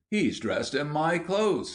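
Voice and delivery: high, drawn-out amazement; excited. A narrator's reading. William spots the boy in his suit, excited. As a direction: stretch it out with rising excitement. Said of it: "said William excitedly".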